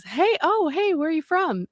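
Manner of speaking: high, bright calling out hey; eager maintenance guy. Retold or imitated. Maintenance guy calls out to British-sounding coworker, eagerly. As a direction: call out to him, pitched high and curious.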